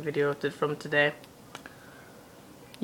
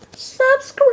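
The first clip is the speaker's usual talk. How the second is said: loud, high sign-off yell; excited shout; 9 dB louder than usual. Real, not acted. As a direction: shout the outro to the viewers. Calling out a vlog outro.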